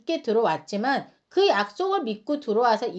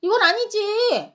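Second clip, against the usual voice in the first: jealous neighbour protests that the kimchi was shared unfairly, whiny and indignant; whiny mock complaint; 3 semitones higher than usual. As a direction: play the jealous one demanding equal kimchi. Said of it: "막 이렇게 따지는 사람이".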